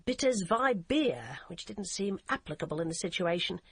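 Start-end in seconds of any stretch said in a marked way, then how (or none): 0.0-1.4 slow, careful tourist German; halting German. Retold or imitated. Barbara recalling her only German phrase, slow and halting. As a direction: spell out the only German she knows. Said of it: "All she knew how to say in German was".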